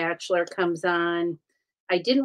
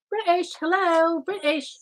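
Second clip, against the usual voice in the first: calling out playfully; 8 semitones higher than usual. Pretend. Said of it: "we're calling the British".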